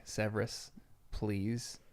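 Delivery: softly retold weak plea; pleading. Dumbledore begs Severus to save him, quietly pleading. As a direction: imitate a hushed, understated plea. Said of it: "was, like, begging him to save him".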